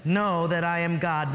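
very slow, stretched out; drawn-out reverent quote; slow scripture reading. Shown as a demonstration. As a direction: let each word settle, slowly. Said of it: "Would you underline "still".

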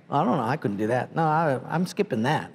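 mock reluctant reader. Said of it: "read against the grain".

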